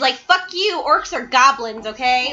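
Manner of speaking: emphatic rant. Real, not acted. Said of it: "leaned forward so it would sound louder".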